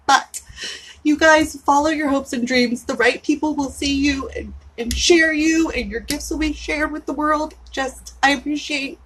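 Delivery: holding back real tears while thanking; tearful. Real, not acted. Thanking clients and friends Ken and Nisha, choked up. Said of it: "don't make me start crying".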